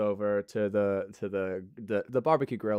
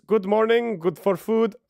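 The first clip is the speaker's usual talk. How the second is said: high, loud, sing-song greeting; cheery cook voice; 9 semitones higher, 6 dB louder than usual. Acted. Swan Dos the cook greeting everyone, high and loud. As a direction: beam it out like an eager cook. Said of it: "Swan Dos goes".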